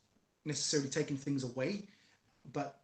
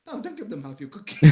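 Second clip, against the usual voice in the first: much louder, laughing through it; laughing loud refusal; 3 semitones higher, 13 dB louder than usual. Real, not acted. Dad mocking the sharing rule, laughing loudly.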